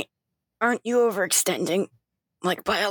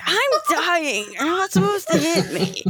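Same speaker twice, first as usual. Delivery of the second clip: laughing in character; 5 semitones higher than usual. Acted. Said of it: "She's like".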